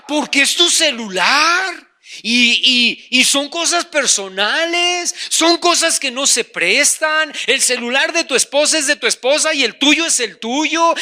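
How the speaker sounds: hammed-up self-justifying tempter; devil's voice. Devil defending a husband's private phone, mock insistent. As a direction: build the excuses, stretching the last words. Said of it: "Eso es la voz del diablo".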